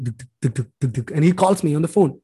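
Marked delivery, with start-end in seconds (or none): 0.0-1.1 soft, low thudding "duk, duk" heartbeat; quiet vocal heartbeat beats; imitated heartbeat. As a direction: mimic a pounding heart under the breath. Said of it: "My heart is like".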